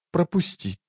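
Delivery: soft, high, tense "let me pass"; a quiet, pointed demand. A narrator's reading. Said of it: "тихо сказала она".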